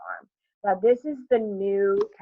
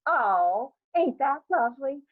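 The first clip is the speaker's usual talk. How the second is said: high cooing neighbor voice; emphatic coo; 6 semitones higher than usual. A narrator's reading. Johnson cooing about Beneatha's outings, a high coo. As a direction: coo over the news emphatically. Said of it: "an emphatic coo".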